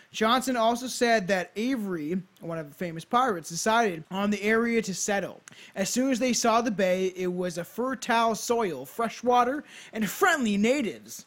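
storyteller read with punched key words; measured, emphatic read-aloud; scripted narration. Acted. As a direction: present it like a podcast history script. Reads a scripted history.

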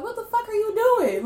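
high, loud mock outrage; imitated cussing out. Grandma waking when the channel is turned, mock outraged. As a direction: cuss like a woken grandma, playfully indignant. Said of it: "wake up and cuss you out".

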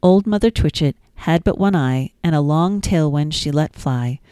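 sing-song, lilting nursery rhyme reading; gentle storytime reading; reading rhymes to children. Acted. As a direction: read it like bedtime rhymes for a toddler.

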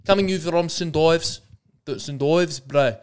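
South African attempt sliding into Lebanese Australian; Lebanese-tinged accent. Shown as a demonstration. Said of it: "feel a little bit Lebanese".

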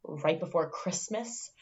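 mock disbelief. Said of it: "she looks at him and goes".

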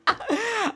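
sudden high giggle; high burst of laughter. Real, not acted. Breaks into laughter.

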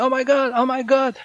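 high, loud imitation of a shocked man; shocked executive. Healer imitating the shocked executive, high and loud. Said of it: "And he said".

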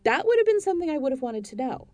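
loud, high ranting; furious rant. Acted. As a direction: tear into her over the phone. Ranting at agent.

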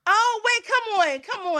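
high-pitched objection; urgent, high protest at the ruling; pleading protest. Real, not acted. Contestant protests a rejected answer.

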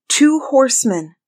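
high-voiced report from above; sister calling down. A narrator's reading. Sister reporting from the tower, calling down. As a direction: call the sighting down in a high voice.

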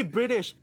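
British with T turned to D; American D in British. Real, not acted. Guest catches himself saying British, American-style D for T. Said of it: "See, I said British. I'm so American now".

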